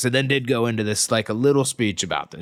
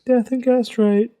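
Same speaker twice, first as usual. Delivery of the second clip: muttered curse; 12 semitones higher, 4 dB louder than usual. Acted. Reading character line.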